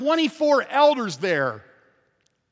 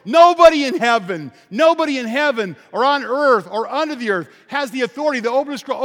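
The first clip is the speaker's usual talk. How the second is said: loud, high cry from the pulpit; preacher's ringing declaration; preaching at full force; 4 semitones higher, 7 dB louder than usual. Real, not acted. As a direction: proclaim it to the back row. Climax of scroll dilemma.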